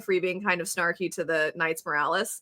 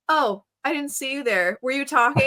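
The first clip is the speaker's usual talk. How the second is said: higher-pitched, mildly petty snub; Kifri; 4 semitones higher than usual. Retold or imitated. Snubbing the complaining guy, imitated sassy snark. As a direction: feign innocent surprise as a sassy put-down. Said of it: "he was so petty".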